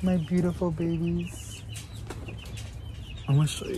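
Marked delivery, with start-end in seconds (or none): 0.0-1.6 cooing to plants. Real, not acted. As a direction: coo at your plant babies like pets.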